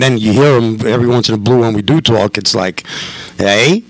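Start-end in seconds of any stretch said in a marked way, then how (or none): 3.4-3.8 imitating a cousin's light Boston accent; casual Boston-tinged greeting; slight Boston accent. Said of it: "he has a little bit of a Boston accent".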